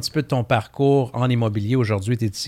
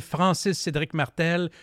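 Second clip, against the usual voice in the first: drawn-out announcer name; 7 semitones higher, slower than usual. Acted. Name drawn out in ring intro.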